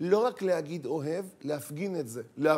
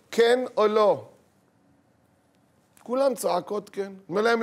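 normal talking voice

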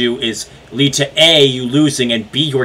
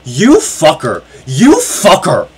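getting louder and slower; rising angry curse; 4 dB louder, slower than usual. Real, not acted. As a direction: build the curse with each repeat. Repeated curse rising in anger.

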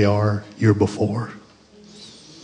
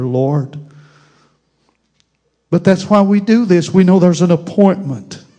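fervent prayer; 4 semitones higher, 4 dB louder than usual. Real, not acted. Pastor praying for a church with too much death, earnest pleading. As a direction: plead with the Lord, then ease down gently.

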